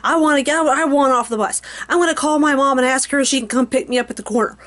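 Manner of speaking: mock whining kids; whiny teenagers. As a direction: whine like a bratty teen. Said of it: "They started whining and complaining".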